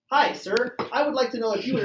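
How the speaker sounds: a hint of telemarketer patter; imitated telemarketer. Telemarketer cold-calling a sir, lightly imitated sales voice. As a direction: lightly mimic a scripted cold call. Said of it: "that's how she sounded".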